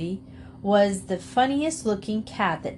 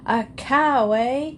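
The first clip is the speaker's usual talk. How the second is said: higher, louder furious challenge; angry roar; 5 semitones higher, 4 dB louder, slower than usual. A narrator's reading. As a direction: roar it while chasing him. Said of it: "he was roaring angrily".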